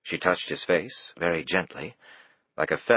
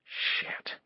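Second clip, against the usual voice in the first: muttered curse; 8 dB quieter than usual. A narrator's reading. Drunk man's muttered curse.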